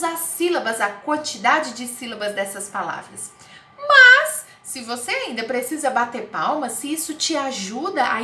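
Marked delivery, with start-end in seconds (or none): 3.8-4.5 high, loud exclamation; emphatic call for attention; sudden loud but. Real, not acted. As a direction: jump in sharply to redirect. Teacher calls out a sudden "but.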